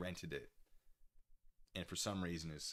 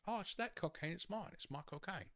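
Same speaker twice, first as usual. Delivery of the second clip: high put-on Cockney accent, falling softer; Michael Caine; 10 semitones higher, 3 dB quieter than usual. Shown as a demonstration. Showing how to do the actor's accent, Cockney impression. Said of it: "how you do a Michael Caine accent".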